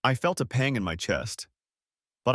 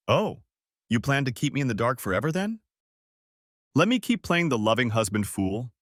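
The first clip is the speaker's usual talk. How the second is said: bitter incredulity; 2 semitones higher than usual. A narrator's reading. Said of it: "incredulous laugh escaped me".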